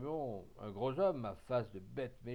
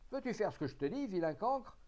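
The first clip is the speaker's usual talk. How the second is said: high, loud enraged shout; angry yell; 9 semitones higher, 6 dB louder than usual. Acted. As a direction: scream down at the insolent sailor. Captain yells at defiant sailor.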